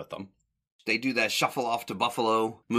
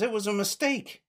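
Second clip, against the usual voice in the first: mock Curly; 13 semitones higher than usual. Curly quote, very high.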